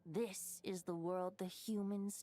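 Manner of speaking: a slow, wistful whisper from the aging wolf; old wolf's remark. Acted. The bard voicing the aging wolf to his friend, slow hushed whisper. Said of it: "and remarked".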